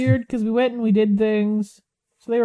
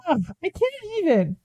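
annoyed ugh; 8 semitones higher than usual. Real, not acted. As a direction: sigh out the disgust. Exasperated at ex-partner's return.

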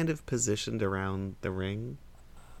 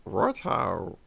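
a quick Cockney "Righto"; Cockney inner voice; 4 semitones lower than usual. Acted. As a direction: drop into a Cockney accent. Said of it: "that super Cockney accent".

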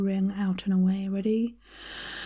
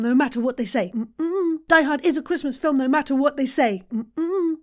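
like you mean it; 3 semitones higher than usual. Shown as a demonstration. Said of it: "Say it like you mean it".

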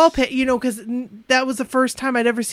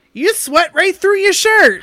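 high slow taunting jeer; mocking classmate; 9 semitones higher, 7 dB louder than usual. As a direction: sneer it like a schoolyard jerk. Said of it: "a guy in my class was like".

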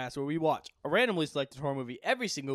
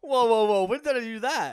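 surprised protest; 6 semitones higher, 8 dB louder than usual. Real, not acted. Protesting being called manlet.

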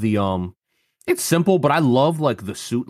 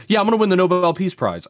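smug Power; 8 semitones higher, faster than usual. Retold or imitated. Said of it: "She's like".

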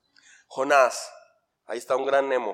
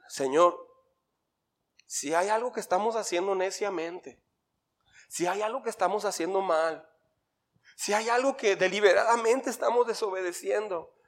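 softly voiced prayer; gentle plea to God, lightly imitating his wife; wife's prayer; 3 semitones higher, 4 dB quieter than usual. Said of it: "Ella decía".

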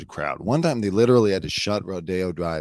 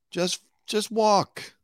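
exasperated; much slower than usual. Real, not acted. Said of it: "exasperated plea".

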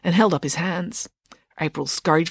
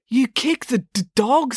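mildly grave accusation; somber; 6 semitones higher, slower than usual. A narrator's reading. Joe tells officer what he did, somber. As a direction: state it gravely, stumbling slightly. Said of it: "said Joe somberly".

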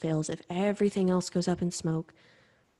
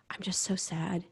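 whispered sadness; 3 dB quieter than usual. Retold or imitated. Retelling her sad phone call.

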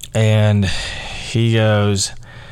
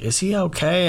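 much higher, mock-concerned question; concerned passerby; 10 semitones higher than usual. Passersby asking about the crying student, high-pitched concern. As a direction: lightly voice a worried onlooker, pitched up.

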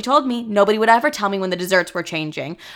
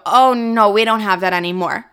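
louder, hammed-up oh no; loud mock dismay; 4 dB louder than usual. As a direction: blurt out the bad news, louder. Retold refusal to customer.

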